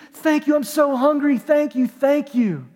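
mock the man's overjoyed shouting of thanks; retold scream. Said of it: "He started screaming it".

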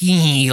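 short mock-evil "eee"; evil mischief squeal. Imitating evil bicyclists out to ruin everyone's day, mischievous squeal. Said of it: "like they're evil, mischievous fuckers".

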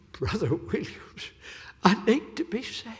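put-on old lady's plea. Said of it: "tears were coming down, and she said".

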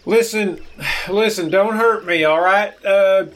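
hammed-up frightened pleading; mock pleading. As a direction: beg for mercy in a put-on panic. Chess acts scared in staged fight.

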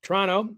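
Toronto clipped to "Tronno" with a slight rise; Canadian pronunciation. Shown as a demonstration. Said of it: "how the Canadians pronounce it".

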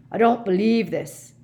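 hoarse, upset gentle giant. A narrator's reading. Hagrid at his injured friend's bedside, hoarse and upset. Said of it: "said Hagrid hoarsely".

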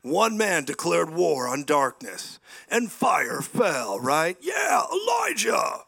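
loud, slow preacher's cry, soaring on Elijah; preaching shout. Real, not acted. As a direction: call it out to the whole church. Preacher crying out to congregation.

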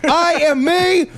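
defiant rant. Pretend. Ranting defiant declaration.

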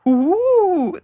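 ghost sound. Shown as a demonstration. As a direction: moan it like a cartoon ghost. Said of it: "that wasn't a ghost sound".

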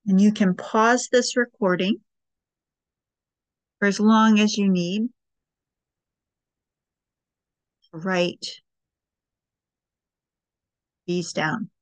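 unhurried guiding voice with long pauses; guided meditation. Acted. Host guiding listeners through breathing and writing prompts, guided meditation. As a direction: lead them gently through each step, leaving space.

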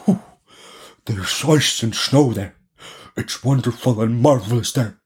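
lightly voiced reindeer, admiring; a hint of a character voice for the reindeer. A narrator's reading. Reindeer tells of its snowy home, lightly voiced. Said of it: "the reindeer said".

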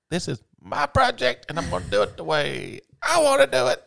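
stubbornly claiming his own project; mock defiant self. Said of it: "And I'm like".

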